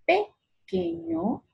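"Pequeño" slow and split, high push on the first syllable PE; prueba de acento. Shown as a demonstration. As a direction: try PE-queño, first syllable set apart. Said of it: "¿Cómo yo hablo?". ("Pequeño" lento, probando el acento en PE)

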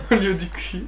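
ordinary talk

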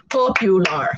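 "Popular" in three separate beats, POP-U-LAR; syllable by syllable. Shown as a demonstration. Teacher counts three syllables for learners, syllable by syllable. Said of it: "three syllables".

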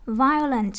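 "Violent" with VI hit, then falling; stress on first syllable. Shown as a demonstration. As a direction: lead hard with VI in "Violent". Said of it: "nhấn âm một".

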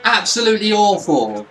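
loud, exasperated verdict on the team; real annoyed rant, pushed loud; fed up. Real, not acted. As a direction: declare it hotly, completely done. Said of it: "I'm so done with it".

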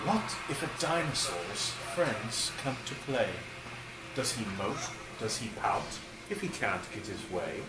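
lilting storybook read-aloud; reading to children. Acted. Dad reading a dinosaur book to his boys, storybook lilt. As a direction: read it like a bedtime picture book. Reads picture book to kids.

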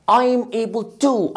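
very slow I'm able to; teacher drilling slowly; slow model phrase. Shown as a demonstration. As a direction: drag out I'm able to clearly.

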